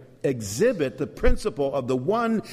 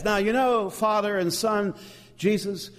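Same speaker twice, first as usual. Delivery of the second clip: lightly acted, higher-pitched complaint; Holy Spirit; 5 semitones higher than usual. Preacher voicing the Spirit confronting Father and Son, mock complaint. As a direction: push the pitch up as if laying down terms. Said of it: "And the Spirit says".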